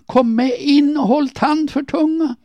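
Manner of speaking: very high, forceful yell; shouted order. A narrator's reading. Erik ordering the screaming woman inside, shouting. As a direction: shout her indoors and into silence. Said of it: "ropade han".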